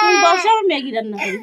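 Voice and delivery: high, sing-song mother talk. Real, not acted. Mother to her crying child, high coaxing.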